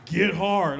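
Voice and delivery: punchy mock-coach command; coach-like girlfriend. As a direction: imitate a coach giving an order. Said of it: "sound like my coach".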